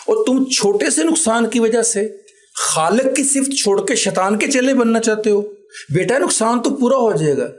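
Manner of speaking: retelling the father's moved plea, pitch rising; a touch of tearful earnest advice; emotional. Retold or imitated. Father urging his son to forgive, emotional and rising. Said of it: "جذباتی ہو کر کہتے ہیں".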